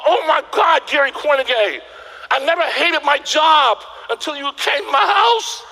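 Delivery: high, laughing excited rave; excited prospect. Retold or imitated. Excited people telling Gary about the job, high and laughing. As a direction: gush like a thrilled new client. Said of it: "And people go".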